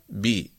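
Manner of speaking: "بي" with b released into an i; voweled consonant. Shown as a demonstration. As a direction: open from b into i on "بي". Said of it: "كذلك". (نطق "بي" باء مكسورة)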